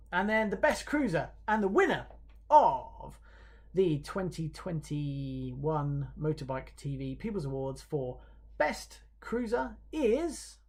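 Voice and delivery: drawn-out award reveal with long pauses; suspenseful announcer. Real, not acted. Host about to reveal best cruiser, announcer delivery. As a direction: stretch it out to build suspense.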